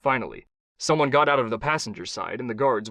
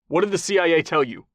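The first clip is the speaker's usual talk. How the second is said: louder, higher hard demand; 6 semitones higher, 4 dB louder than usual. Acted. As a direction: demand an answer from him. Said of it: "Kai demanded".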